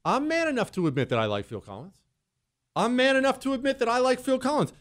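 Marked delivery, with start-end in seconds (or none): 2.8-4.7 high-pitched, emphatic declaration; proud proclamation. Real, not acted. Repeats confession as proud proclamation.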